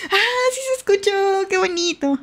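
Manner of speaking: delighted cooing. Real, not acted. Streamer hearing her dog's sleep noises, delighted cooing. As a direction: melt over something adorable. Delighted the dog was heard.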